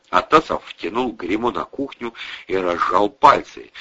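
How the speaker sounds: plain reading voice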